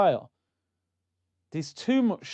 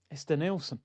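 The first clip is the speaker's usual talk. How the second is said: deflated realisation; 7 dB quieter than usual. Retold or imitated. Fan staring at the photo, quietly deflated. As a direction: sink into "It's Denilson" as the hope dies. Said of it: "I looked at the picture, I went".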